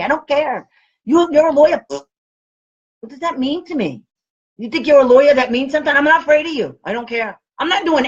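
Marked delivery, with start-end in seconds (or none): 1.0-6.8 retold chewing out. Telling off a lawyer, firm fast scolding. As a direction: tear into him, fast. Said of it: "I just chewed out a lawyer".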